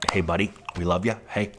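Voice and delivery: breezy sales pitch, a hint of a Hollywood schmoozer; quick, chummy promise to a new client; slick gum-chewing agent. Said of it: "this gum chewing".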